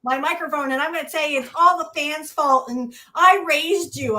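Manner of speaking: whiny mocking voice, loud at the start; mock whiny Cena. Mocking Cena by whining his promo about the fans. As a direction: whine it out like a spoiled brat. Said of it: "he's a whiny little bitch".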